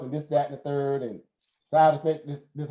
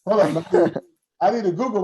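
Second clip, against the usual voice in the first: mock challenge; 5 semitones higher, 7 dB louder than usual. Real, not acted. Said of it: "challenging the audience".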